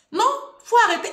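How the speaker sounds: sudden high, loud cry of protest; exasperated protest. Acted. Vlogger pushing back at commenters, high and loud. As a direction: shoot it up loud, fed up with the critics.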